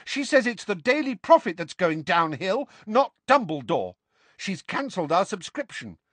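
put-on high-pitched, earnest boy's voice; piping up. A narrator's reading. Neville reports his gran's view of the paper, piping. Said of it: "piped up Neville".

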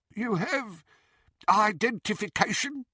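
high, suspicious goblin question; a goblin probing with suspicion; nasty nasal goblin sneer. A narrator's reading. Goblin asks for identification.

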